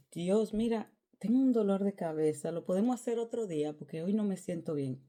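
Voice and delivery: hammed-up headache excuse; mock sick excuse. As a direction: fake being ill to dodge God. Fake excuse to God.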